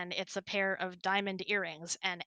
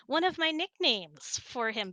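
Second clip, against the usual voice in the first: normal talking voice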